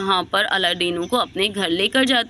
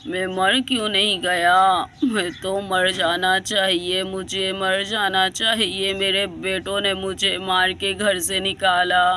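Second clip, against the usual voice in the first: put-on crying old man; 3 semitones lower than usual. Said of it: "अलादीनो रो रहा होता है".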